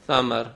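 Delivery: ثمر said with a light th, tongue tip on the upper teeth, no hiss; tongue against the teeth for ثمر, no whistle; lisped th sound. Shown as a demonstration. Teacher showing ثمر with ثے, light and unhissed. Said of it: "آواز باریک کریں گے بغیر سیٹی کے".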